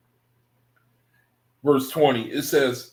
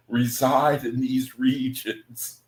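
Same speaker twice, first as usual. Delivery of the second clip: laughing through the words; slower than usual. Real, not acted. Laughs while reading verse.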